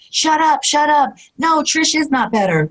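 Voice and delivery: high, sharp self-scolding; yelling at herself. Retold or imitated. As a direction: snap at your own reflection. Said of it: "me yelling at myself in the mirror".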